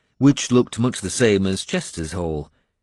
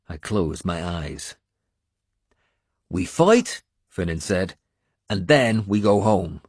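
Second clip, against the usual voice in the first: rousing Irish warrior. Acted. Finan refusing to let his lord lie in bed, rousing. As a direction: stir the wounded lord to fight.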